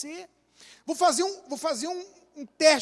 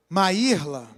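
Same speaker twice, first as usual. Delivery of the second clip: stern name call; 6 semitones lower, 4 dB louder than usual. Shown as a demonstration. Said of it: "A minha esposa disse que eu falo assim".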